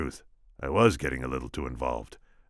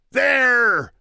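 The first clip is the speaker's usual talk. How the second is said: much higher, loud cry; shout; 10 dB louder than usual. Acted. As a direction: call out the sighting. Pointing at the cliffs.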